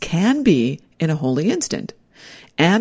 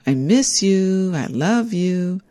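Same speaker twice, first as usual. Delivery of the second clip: sing-song; 4 semitones higher, slower than usual. Retold or imitated. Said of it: "just in a sing-song voice".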